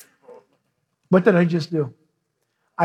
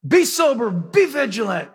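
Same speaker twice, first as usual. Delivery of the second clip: commanding. Retold or imitated. Peter ordering the church midstream, commanding. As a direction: imitate a commander giving brisk orders. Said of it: "he's commanding them".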